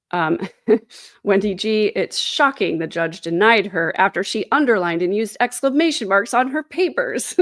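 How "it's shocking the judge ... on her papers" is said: mock shock. Streamer reads a viewer's joke about the denied motion, mock shock. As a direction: feign astonishment, pitch climbing toward the end. Sarcastic reading of viewer's mocking comment.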